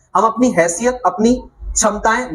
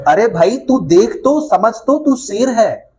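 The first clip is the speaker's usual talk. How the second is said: coaxing; slower than usual. Acted. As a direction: urge him kindly to see the truth. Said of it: "शेर समझाने लगा उसको". (शेर प्यार से समझाता हुआ)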